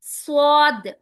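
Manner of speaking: "स्वाद" loud, lips rounded as if to whistle; rounded heavy Swaad. Shown as a demonstration. Teacher showing lip rounding on "स्वाद", loud and full. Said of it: "अंदर की तरफ गोल होगा".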